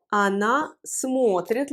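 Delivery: смотрит slowly, stressed on a full о. Shown as a demonstration. Teacher showing the accent stays, смотрит stressed on о. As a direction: lean long on the о in смотрит. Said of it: "L'accent reste sur le O".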